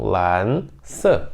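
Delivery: ordinary talk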